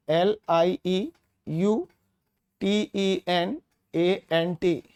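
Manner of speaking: slow, letter by letter spelling for students. Shown as a demonstration. Teacher spelling lieutenant for first-time learners, slow and deliberate. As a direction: spell each letter slowly and clearly. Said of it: "इन words को देख रहे हैं".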